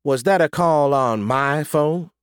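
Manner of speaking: slow, high-pitched disbelief; appalled mother's question; shocked. A narrator's reading. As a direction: ask aghast, drawing out each word. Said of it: "staring at me in shock".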